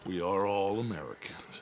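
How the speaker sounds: whispered under the breath. Acted. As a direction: keep it to a hushed whisper. Tense standoff, quiet aside.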